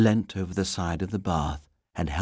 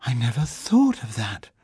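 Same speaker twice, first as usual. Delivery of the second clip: crestfallen; 4 semitones higher than usual. Acted. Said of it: "Paddington looked crestfallen".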